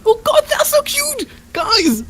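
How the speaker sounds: very high, loud squeal of delight; piercing, overjoyed fawning; gushing squeal. Acted. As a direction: squeal over unbearably cute babies. Reacting to tiny baby monsters.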